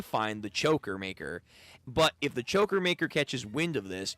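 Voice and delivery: measured, deliberate informant voice; a lightly voiced, conspiratorial broker; secretive informant. Information broker gives secret instructions.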